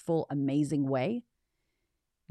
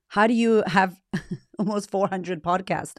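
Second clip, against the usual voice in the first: mimicking a curious fan; 3 semitones higher, 4 dB louder than usual. People asking the podcaster about her episodes, amazed. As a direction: toss it out like an amazed listener. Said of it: "when people are like".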